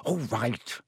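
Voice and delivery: coolly restrained; cold. A narrator's reading. Girl answering her impatient friend, cold. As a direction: give in with a touch of frost. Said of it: "said Hermione coldly".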